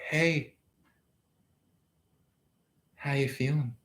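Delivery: quiet caring question; soft caring check-in. Pretend. Twin flame's imagined caring check-in.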